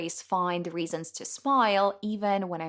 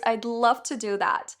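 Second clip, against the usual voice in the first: excited; 6 semitones higher, 5 dB louder than usual. Retold or imitated. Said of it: "And I was like".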